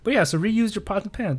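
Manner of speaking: hushed confessional whisper; breathy sneaky whisper. Real, not acted. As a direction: whisper it like a guilty secret. Confessing nasty habit aside.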